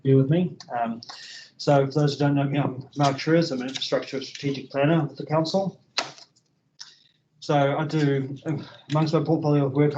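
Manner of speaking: muffled through a face mask. Real, not acted. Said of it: "try and speak through the mask".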